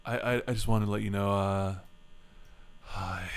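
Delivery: halting, shy fawning voice; simpering. Pretend. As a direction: stammer it like a nervous admirer. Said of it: "that fawning weirdo".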